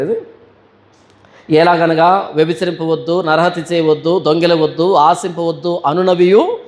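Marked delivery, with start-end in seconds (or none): 1.5-6.6 scripture reading. Acted. Reads scripture verse aloud.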